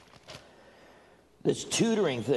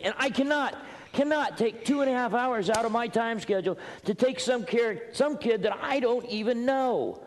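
higher-pitched, insistent protest; exasperated refusal; 5 semitones higher than usual. Acted. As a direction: protest as if completely overwhelmed. Acted refusal to tutor the child.

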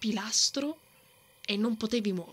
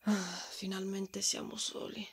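relieved whisper; 5 dB quieter than usual. Acted. Alone with him at last.

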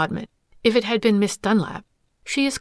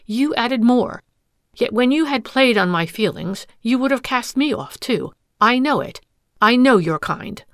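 loud, rising accusations; wronged wife berating the suitor; angry tirade; 3 semitones higher, 5 dB louder than usual. Acted. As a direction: lash out at the man who deceived her.

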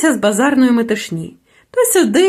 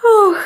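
a higher, sad little sigh Ох; girl's sigh; 7 semitones higher, 3 dB louder than usual. A narrator's reading. Flower girl sighs to the little witch, sad and higher. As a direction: let out a weary sigh. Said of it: "зітхнула дівчинка".

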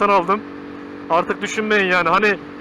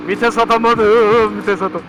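louder, slow frustrated groan; 4 dB louder, slower than usual. Real, not acted. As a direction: drag it out in annoyance. Repeats it after the missed shift.

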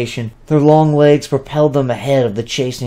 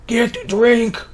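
slow, higher, slurring fat fairy; slurred demand; 11 semitones higher, much slower than usual. Acted. The lazy male fairy slurs an order at his wife. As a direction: drag the words out lazily and slurred. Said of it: "as he slurred".

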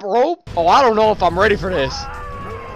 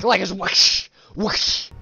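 whoosh imitation; 3 semitones lower, much slower than usual. Shown as a demonstration. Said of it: "punches sound like a whip crack".

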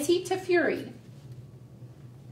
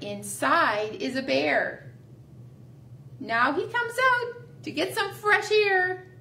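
put-on sing-song rhyme for small children; finger play rhyme. Teacher leading children in a finger play, sing-song and slowing. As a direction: lead the kids through the rhyme, slowing at the end.

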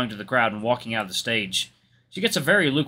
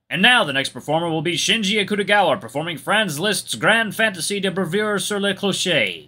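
high, projected stage introduction; competition announcer; 7 semitones higher, 4 dB louder than usual. Acted. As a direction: formally present the next performer, pitched up.

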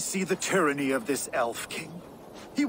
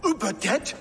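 shocked fury; 7 semitones higher than usual. Acted. Learning Uba died, swearing revenge on the Saxon in fury. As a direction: hit the news, then explode into a threat. Hears his brother Uba is dead.

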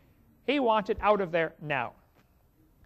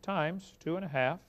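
slow calculator entry; 2 semitones lower, 5 dB quieter, slower than usual. Retold or imitated. Punching numbers into calculator.

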